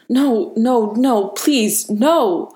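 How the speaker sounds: high, breathless begging; panicked, breathless refusal; breathless pleading. A narrator's reading. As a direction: plead desperately, pitch lifting on each word. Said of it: "he said breathlessly".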